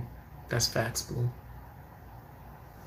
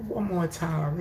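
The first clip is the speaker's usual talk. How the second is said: higher-pitched mock plea; lightly put-on voice, raised in pitch; imitating the dude; 4 semitones higher, slower than usual. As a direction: mimic his defeated plea. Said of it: "He was like this".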